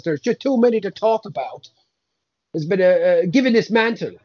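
a hint of a grumpy saint, cursing; grumbling old saint fed up with rumours; mild put-on Irish saint; lightly voiced Saint Patrick.

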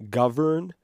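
Government with rising pitch on Govern; stress on Govern. Shown as a demonstration. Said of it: "Ment is, is Latinized".

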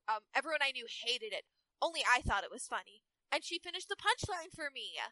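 lightly voiced Valley Girl; Lena. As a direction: read it as a mild Valley Girl. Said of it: "make Lena a Valley Girl".

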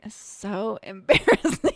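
laughing through the word, slowed down; embarrassed laugh. Real, not acted. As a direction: giggle it out, still embarrassed. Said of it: "I get embarrassed again".

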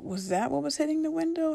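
astonished. Retold or imitated. Realizing the window noise.

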